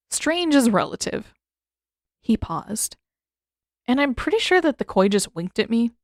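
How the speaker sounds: lightly voiced young man, wry and joking; a hint of deadpan teenage Sokka; Sokka, dry. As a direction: shrug it off with dry humor.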